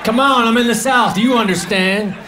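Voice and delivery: mock Southern accent. Comic pleading with Southern diners in a mock Southern accent. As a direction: lean into a fake Southern accent. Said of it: "I try to talk like that".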